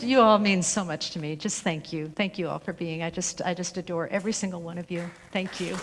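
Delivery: moved near tears. Real, not acted. Minister thanking beloved practitioners, moved and tender. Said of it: "I'm gonna cry".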